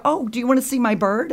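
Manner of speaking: high, lilting offer to guests; proud owner's singsong question; eager invitation. Retold or imitated. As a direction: show off the bird, delighted. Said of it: "and I'd go".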